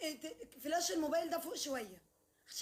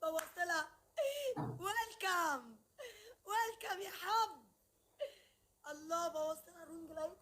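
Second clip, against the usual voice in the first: mock crying; 3 dB quieter, slower than usual. Mocks the rival in a crying tone.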